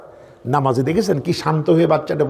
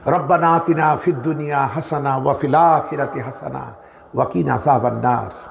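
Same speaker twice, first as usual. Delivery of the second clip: lower-pitched recited supplication; Arabic prayer recitation; 4 semitones lower than usual. Acted. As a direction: recite the Arabic dua in a low voice.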